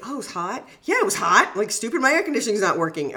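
sarcastic mirror. Shown as a demonstration. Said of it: "they're gonna say, you're gonna say".

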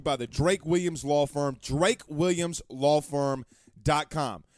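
slow, punchy sponsor read. Acted. Host reading a sponsor spot, upbeat ad voice. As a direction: sell the law firm like a radio spot.

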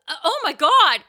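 high, loud retold "oh my God"; shocked outburst. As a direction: exclaim it in exaggerated dismay. Retells her shocked reaction.

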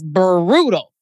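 "brutal" stretched at the start, br-rutal; "brutal" said as buh-ROO-tal for weight; emphatic BRUTAL. Real, not acted. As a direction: lean hard on "brutal", drawing out its first syllable. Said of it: "brutal with a capital B".

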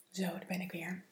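just after a sip of water; soft voice right after swallowing; while sipping a drink. Real, not acted. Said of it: "Even een slokje water genomen".

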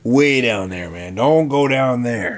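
loud, drawn-out mock warning; sea-creature warning. Playing talking sea animal warning a buddy.

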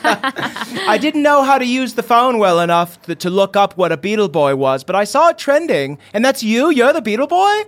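proud doting mother. Acted. Mother learns her son is the trending Beetle Boy, gushing proud mom. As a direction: beam with pride at him.

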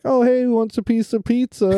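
high, falsely innocent offer; innocent host offer. Retold or imitated. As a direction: offer pizza sweetly as a trick. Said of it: "and I was like".

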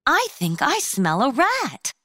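lightly voiced young woman, wary; suspicious Clara. Clara at the empty picnic, lightly wary and suspicious.

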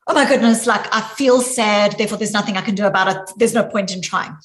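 mock resigned complaint; mock defeated self-talk. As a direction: act out giving up, then rush it. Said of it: "I don't mean".

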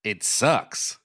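lightly voiced sneering critic; a hint of a nasal critic; Jay Sherman. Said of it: "quote our old friend Jay Sherman".

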